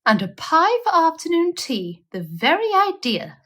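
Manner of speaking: high, sniffy disdain; disdainful scoff. A narrator's reading. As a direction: scoff at the very notion. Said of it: "said Cousin Tabitha Twitchit".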